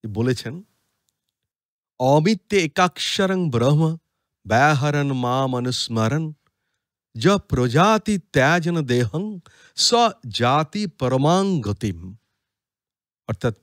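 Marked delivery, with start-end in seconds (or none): 2.0-12.2 slow, measured chant of the shloka; Sanskrit verse recitation. Acted. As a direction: recite the verse slowly and solemnly.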